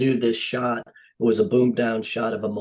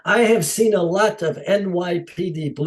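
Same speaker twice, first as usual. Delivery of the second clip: higher-pitched imitated Dutch accent; 6 semitones higher than usual. Dutch director defending his experience, Dutch accent. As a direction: put on a proud Dutchman's accent. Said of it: "in his Dutch accent".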